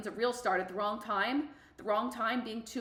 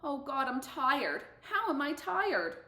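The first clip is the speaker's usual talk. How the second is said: slow, rising disbelief; tired and shocked at herself; dismayed self-talk; 4 semitones higher, slower than usual. Retold or imitated. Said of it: "me saying to myself".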